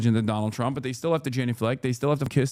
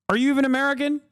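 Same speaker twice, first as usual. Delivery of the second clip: mock sneer; 11 semitones higher, much faster than usual. Streamer mocking European MAGA fans.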